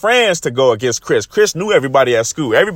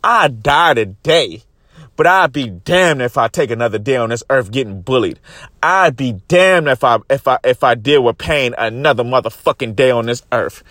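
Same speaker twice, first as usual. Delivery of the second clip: defiant vow; 4 semitones lower than usual. Retold or imitated. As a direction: draw each word out like a final oath. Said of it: "mature enough to say".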